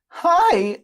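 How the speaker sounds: put-on high, loud boyish squeak; twelve-year-old boy. Dipper greeting the trio, high twelve-year-old boy voice. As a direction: pitch it way up like a kid. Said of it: "trying to be like a twelve-year-old boy".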